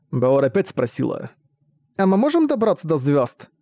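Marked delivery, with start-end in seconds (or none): 2.0-3.5 put-on high curious child's question; wondering little girl. Girl asks father.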